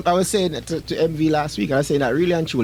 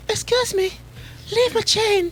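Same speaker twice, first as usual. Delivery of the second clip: high Jamaican security lady voice; Jamaican accent imitation; slower than usual. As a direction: snap it in Jamaican patois, pitched up. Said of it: "imagine worse with her accent".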